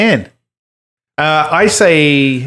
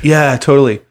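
put-on Californian dude voice; California surfer accent. Shown as a demonstration. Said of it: "Oh, surfer dude".

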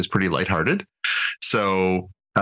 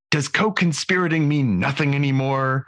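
hammy stage actor; 6 semitones higher than usual. Retold or imitated. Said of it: "from Agamus".

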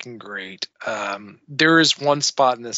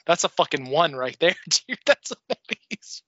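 excited reaction; 2 semitones higher than usual. Retold or imitated. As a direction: gush like you just saw the best match. His own reaction retold.

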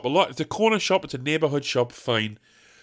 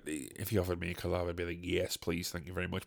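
much quieter, lower aside; sheepish aside; 9 semitones lower, 16 dB quieter than usual. Acted. Comic admitting he'd accept a collab, sheepish aside. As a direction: slip in a meek, under-the-breath acceptance.

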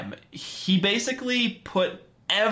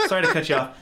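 apology through a laugh; much faster than usual. Real, not acted. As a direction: say sorry while chuckling. Apologizing while laughing at cat.

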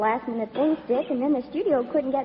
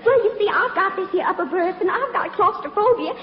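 higher, faster Southern belle pleading, rising to a squeal; rushed southern belle plea; 6 semitones higher, faster than usual. Acted. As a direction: pile on the helpless excuses, faster and higher. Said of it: "my little old southern routine".

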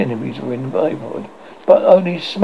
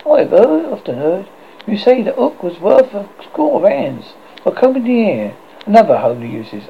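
pirate Smee voice; 7 semitones higher, 3 dB louder than usual. Acted. Smee voiced in read story.

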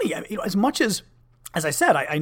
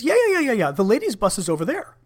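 mocking a patronising official, lightly voiced; dismissive official; 7 semitones higher than usual. Official brushing off staffer.

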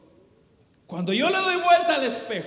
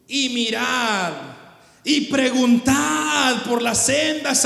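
very slow, drawn-out Bible reading; solemn Scripture proclamation; slower than usual. Acted. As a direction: proclaim the prophet's words to the congregation, stretching each phrase. Reads Jeremiah aloud.

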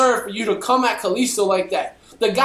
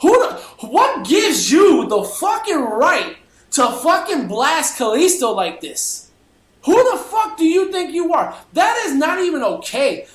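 angry rant; 3 semitones higher than usual. Acted. Ranting at Chris Jericho.

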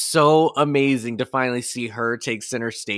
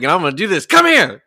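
quoting Harriet; 5 semitones higher, 8 dB louder, faster than usual. Retold or imitated. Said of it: "Harry is just like".

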